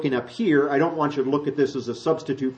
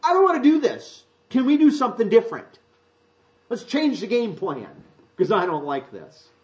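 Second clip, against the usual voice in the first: much higher, mock whining prayer with a laugh; mock a believer begging to change God's plan; whiny complaining Christian; 8 semitones higher than usual. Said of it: "They actually say".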